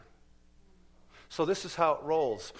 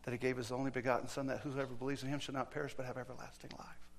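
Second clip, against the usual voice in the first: quiet recital; 7 dB quieter than usual. Retold or imitated. Little girl answers the atheist.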